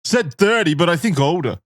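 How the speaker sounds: a hint of a kid; little boy voice. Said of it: "the little boy".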